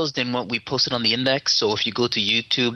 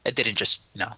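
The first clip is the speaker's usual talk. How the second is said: sarcastic; 2 semitones lower than usual. Acted. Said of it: "he's being sarcastic".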